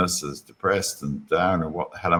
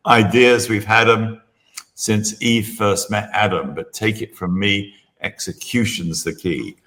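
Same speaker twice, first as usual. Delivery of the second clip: poem recital; 3 semitones higher than usual. Retold or imitated. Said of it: "The first line is".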